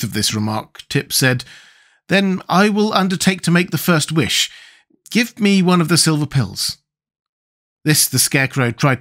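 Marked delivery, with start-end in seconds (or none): 2.1-6.8 put-on raised boy-character voice; volunteer in a lightly voiced boy's tone; Tip, resolute.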